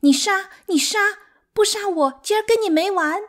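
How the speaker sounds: very high, loud, desperate cries; fierce tearful wailing. A narrator's reading. Sixth wife crying harder as she dares her rival, fierce wailing. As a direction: shriek the challenge in tearful fury. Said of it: "越哭越凶".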